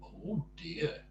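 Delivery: high, kindly "oh dear"; lightly voiced kindly tramp. A narrator's reading. Tramp finding Mister Jelly on the ground, kindly concern. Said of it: "because he was a kindly tramp".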